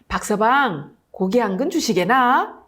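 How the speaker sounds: courteous nobleman, lightly voiced; gentle polite request. Second nobleman gently asking the old butcher for meat. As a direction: ask kindly, with respect for his age. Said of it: "점잖게 부탁했습니다".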